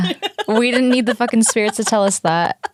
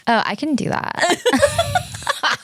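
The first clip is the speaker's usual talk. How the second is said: laughing; 10 semitones higher, 3 dB quieter, much slower than usual. Real, not acted. Laughs about Los Angeles accent.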